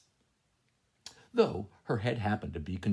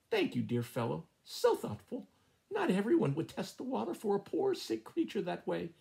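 higher, sing-song mock gratitude; a hen trilling sweetly at the fleeing cat; 10 semitones higher than usual. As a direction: trill the thanks with sly glee. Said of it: "trilled Missus Chicken, laughing to herself".

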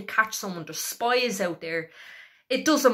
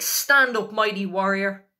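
rousing command; 4 dB louder than usual. Retold or imitated. Preacher voicing God's call to fearful Gideon, rousing command. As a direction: call the fearful one up to fight. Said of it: "And he's like".

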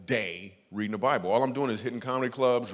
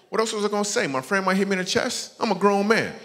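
indignant outburst; 8 semitones higher, 5 dB louder than usual. Real, not acted. Defensive rant about friends.

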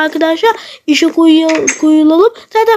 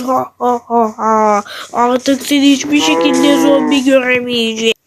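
bully the cow along, a bit lower; lightly lowered villain voice, snarling and laughing; zombie thief voice; 3 semitones lower than usual. Acted. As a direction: lower menacing thief ordering. Thief drags the cow away.

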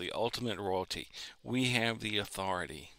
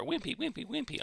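high, soft, timid squeak; mocking a feeble preacher with a high little voice; mock wimpy voice; 4 dB quieter than usual. Shown as a demonstration. Preacher mocks timid rebuke, high and meek. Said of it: "I'll put it that way".

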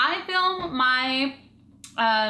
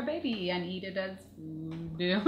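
slow flat robot voice; 5 semitones lower, 9 dB quieter, slower than usual. Acted. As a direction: talk like a deadpan robot. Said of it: "Why do you sound like a robot?".

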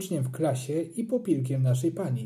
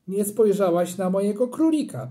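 put-on louder, higher accusing child; hurt boy; 5 semitones higher, 5 dB louder than usual. A narrator's reading. Boy accusing mum of ignoring his rabbit, indignant. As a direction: call mum out for not looking. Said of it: "powiedziałem".

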